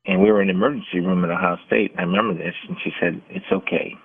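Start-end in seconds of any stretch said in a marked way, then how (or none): 3.3-3.9 calming and comforting. Retold or imitated. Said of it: "in a very calming, uh, comforting, confident way".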